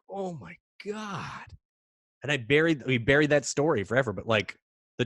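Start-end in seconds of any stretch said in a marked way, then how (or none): 0.1-1.5 high, soft, drawn-out dismay; hushed horror. Retold or imitated. Kids seeing the janitor waste away, hushed horror. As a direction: stretch it out in quiet shock.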